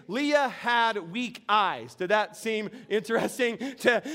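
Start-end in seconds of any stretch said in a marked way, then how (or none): 0.1-1.9 slow quoted phrase. Shown as a demonstration. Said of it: "this phrase".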